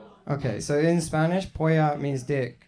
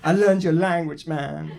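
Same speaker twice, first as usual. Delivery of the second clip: louder, wounded mock protest; mock upset; 3 semitones higher, 4 dB louder than usual. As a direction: insist on it, comically aggrieved. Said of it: "I get upset".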